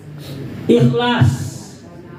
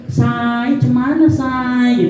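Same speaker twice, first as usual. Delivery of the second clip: chatty auntie; 2 semitones higher, much slower than usual. Retold or imitated. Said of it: "Tapi kalau ibu-ibu".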